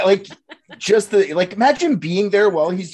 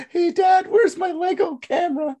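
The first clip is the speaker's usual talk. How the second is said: yelling across the room; slower than usual. Pretend. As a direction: shout it out across the house. Calling to dad jokingly.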